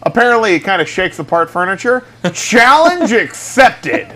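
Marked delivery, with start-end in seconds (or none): 2.3-4.1 slow, high, laughing through it. Pretend. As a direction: say it again, cracking up. Repeats the line laughing.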